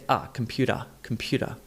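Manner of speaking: British or Aussie computer ending in an open ah; Australian computer, softly ending in ah; Aussie pronunciation. Shown as a demonstration. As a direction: drop the R, Aussie-style computer. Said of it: "whereas Brits and Aussies would say".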